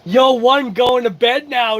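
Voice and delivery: slow, sleepy yawn through the words. Real, not acted. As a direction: drag it out mid-yawn. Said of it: "making me yawn".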